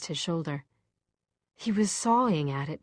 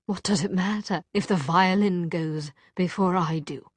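bitter, voiced aloud; angry. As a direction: throw it out with anger. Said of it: "He no longer sounded angry".

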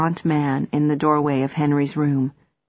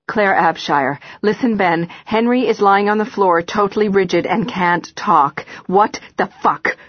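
loud, higher panicked phone call; urgent and scared, pushing the words out; frantic; 3 semitones higher, 3 dB louder than usual. Acted. Frantic phone call about Henry.

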